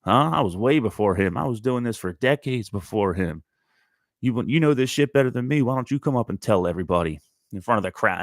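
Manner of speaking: put-on a touch of an irritated old bluesman; old man snapping back. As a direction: bristle at the heckler, put her in her place. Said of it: "this old man all of a sudden goes".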